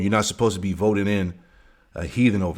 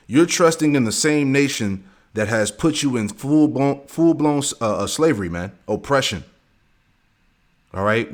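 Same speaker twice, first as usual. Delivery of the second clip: preaching at full force. Acted. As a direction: preach it up to the congregation.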